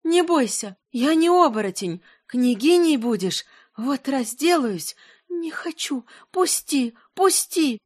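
high, strange spirit voice crying out; seething shrieking spirit. Acted. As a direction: let the spirit shriek through her. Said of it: "злой дух в ней продолжал кричать".

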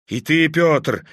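a mild, indignant cry on "ты"; John rebuking Peter with mild anger; angry exclamation. Acted. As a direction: reproach Peter sharply but lightly. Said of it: "с гневом воскликнул Иоанн".

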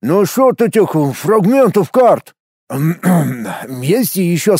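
talking with a full mouth. Acted. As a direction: speak through a mouthful of food. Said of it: "заговорил с набитым ртом".

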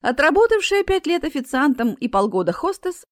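usual speaking voice

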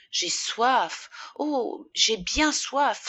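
drawn-out, suffering sigh of thirst. A narrator's reading. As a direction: sigh the words out, drawing out the end. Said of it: "soupira-t-elle". (en soupirant)

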